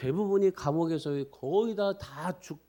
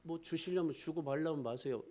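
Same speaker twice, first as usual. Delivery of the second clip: half-hearted prayer; 8 dB quieter than usual. Shown as a demonstration. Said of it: "이럽니까?".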